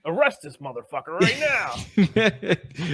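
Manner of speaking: slow, laughing mock order. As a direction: laugh through the words, slowly. Joking mock arrest order.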